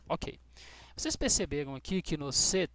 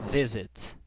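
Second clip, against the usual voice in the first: visit with VI hit louder; stress on first syllable; 3 semitones lower, 6 dB louder than usual. Shown as a demonstration. Teacher showing which syllable is stronger, visit stressed on VI. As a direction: punch the opening VI of visit. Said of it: "O mais forte é esse".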